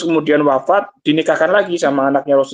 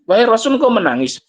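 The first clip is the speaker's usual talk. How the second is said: higher-pitched, retold astonishment; mildly surprised question; 5 semitones higher than usual. Companions asking the Prophet why he weeps, mildly surprised. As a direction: voice a companion lightly puzzled, pitch raised.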